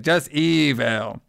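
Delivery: "Don't call me the Phantom. Call me evil." drawn out slowly in a put-on creepy voice; slow it right down and make "evil" menacing; creepy caller voice. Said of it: "Just like".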